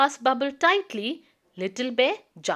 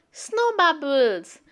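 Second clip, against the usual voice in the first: a light, slow delighted cry; a touch of wonder, slowly; mild excited cry; 4 semitones higher, slower than usual. Acted. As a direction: gently marvel at the bubbles. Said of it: "cried Little Bear".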